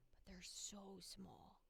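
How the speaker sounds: soft breathy whisper. Real, not acted. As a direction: drop to a whisper. Whispered aside.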